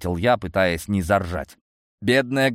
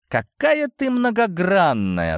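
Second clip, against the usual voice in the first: suspicious; 10 semitones higher, slower than usual. Acted. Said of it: "с подозрением прищурившись".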